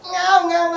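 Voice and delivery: mimicked hungry infant wail; imitated baby cry. Preacher showing how a hungry infant cries, imitated baby cry. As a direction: cry like a baby, briefly and lightly. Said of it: "ಅಂತ ಅಳ್ತಾ ಇರ್ತದೆ".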